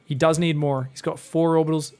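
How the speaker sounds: ordinary talk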